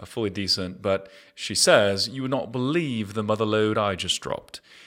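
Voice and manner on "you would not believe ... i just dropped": put-on British accent. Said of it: "English girl with a fantastic British accent".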